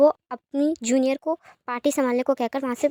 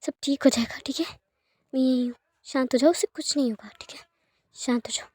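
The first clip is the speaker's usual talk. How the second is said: calm a crying man down gently; hushed, tender comforting to a sobbing friend; soothing. Acted. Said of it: "उसे calm down करते हुए कहती है".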